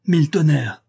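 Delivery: a loud furious oath at the sick horses; angry growl. A narrator's reading. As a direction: bark it out in anger. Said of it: "gronda Jean".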